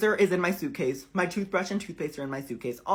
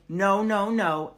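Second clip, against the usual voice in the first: retold driver's loud refusal; imitating an irate yell, moderately loud; mock scream; 3 semitones higher, 6 dB louder, much slower than usual. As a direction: raise the volume for a mock shouted refusal. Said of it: "He screams".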